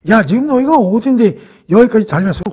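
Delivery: mildly acted telling-off; scolding. Eldest brother Eliab rebuking David, mild scolding. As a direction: lightly voice a cross older brother. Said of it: "혼을 낸 거죠".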